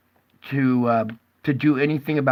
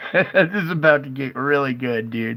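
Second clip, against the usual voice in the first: laughing. Real, not acted. Laughing anticipating skunk chaos.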